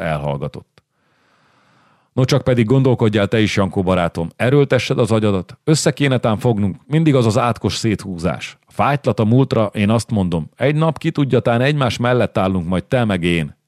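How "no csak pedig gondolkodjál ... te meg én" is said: lightly higher, wheedling friend; a hint of a coaxing noble. Újlaki presses Jankó to join him, lightly coaxing. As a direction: urge him along like a scheming ally.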